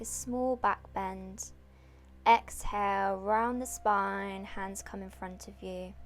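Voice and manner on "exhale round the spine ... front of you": yoga breath cues. Real, not acted. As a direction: stretch each short cue to the length of a breath. Leads breath-timed yoga movement.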